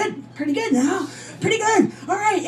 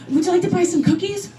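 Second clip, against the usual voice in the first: put-on little girl voice; 7 semitones higher, faster than usual. Little girl selling cookies at door.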